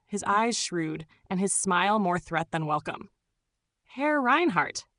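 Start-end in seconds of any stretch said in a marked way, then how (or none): 3.8-4.9 put-on slow, drawn-out greeting with a light German accent; a tall host in German accent greets the disguised guest. A narrator's reading. German accent, slow and formal. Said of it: "he said in fluent but accented German".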